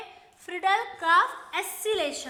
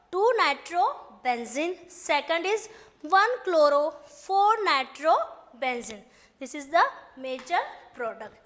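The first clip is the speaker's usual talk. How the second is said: slow, word-by-word note dictation; much slower than usual. Shown as a demonstration. Teacher dictating notes to the class, slow and deliberate. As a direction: spell it out slowly so students can write.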